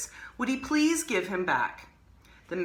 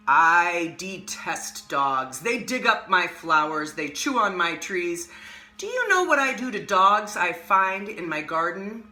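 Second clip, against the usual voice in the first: growling voice; 3 dB louder than usual. Acted. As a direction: growl it out like a cruel magician. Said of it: "in a voice that was more like a growl".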